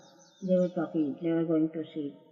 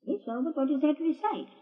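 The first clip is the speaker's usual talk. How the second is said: smiling quoted answer; 8 semitones higher than usual. Retold or imitated. Retold Baba answering with smile.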